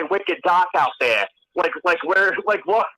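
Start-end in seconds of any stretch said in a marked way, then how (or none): 0.0-1.3 Rhode Island accent, drawn-out vowels; slow New England talk with dropped R's. Shown as a demonstration. Showing friends how New Englanders talk, New England accent. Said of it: "and then we say".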